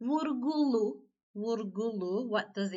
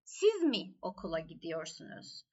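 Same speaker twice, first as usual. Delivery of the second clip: "Siz" pitched up, the rest falling away low; stress on Siz; 5 semitones lower than usual. Shown as a demonstration. Teacher demonstrating the third sentence, stress on Siz. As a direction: hit "Siz", then let the rest drop. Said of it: "Siz vurgulu".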